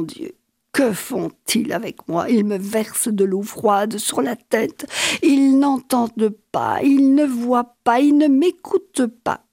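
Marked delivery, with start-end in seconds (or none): 5.2-9.4 de plus en plus fort; désespéré. Acted. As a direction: supplier en montant. Plainte montante du fou torturé. (supplication qui monte)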